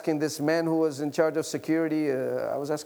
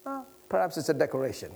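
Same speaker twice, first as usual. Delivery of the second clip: casual dismissal; faster than usual. Retold or imitated. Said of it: "he says casually like this".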